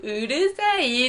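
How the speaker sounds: slow, prissy little 「うるさい」; mock cute standard girl. Mocking her cohost's fantasy, slow prissy cute voice. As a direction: ham up a sweet Tokyo girl. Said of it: "いや、きっしょ".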